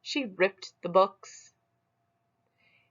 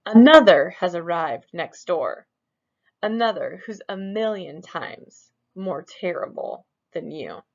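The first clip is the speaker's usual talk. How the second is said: much louder, booming news; loud announcement; 7 dB louder than usual. Acted. The mirror booms out news of a rival to Smug. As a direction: boom it out like a herald.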